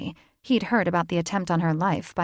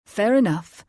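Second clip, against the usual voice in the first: clipped concession; 3 semitones higher, 6 dB louder than usual. A narrator's reading. Fae father concedes.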